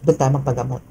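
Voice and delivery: a hint of spirits talking among themselves; voicing the spirits. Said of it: "Pag alam nilang".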